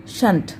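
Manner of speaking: शंट said softly as shunt; quiet answer शंट, shunt. Shown as a demonstration. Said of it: "को हम क्या पढ़ेंगे?".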